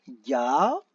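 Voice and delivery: "Ga-lo-per" stretched, with long pauses between syllables; syllable-by-syllable dictation. Shown as a demonstration. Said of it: "on va écrire les syllabes". (« Ga-lo-per » dicté syllabe par syllabe, longues pauses)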